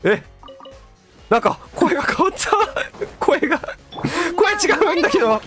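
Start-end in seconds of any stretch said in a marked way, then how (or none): 1.3-5.4 surprised. Real, not acted. Noticing character voice changed.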